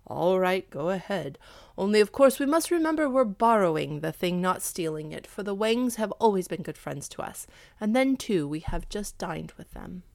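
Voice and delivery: lightly voiced husband, emphatic then easing off; a hint of a conscience-salving husband; consenting husband. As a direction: agree with a mild caution. Husband figure in narrated tale.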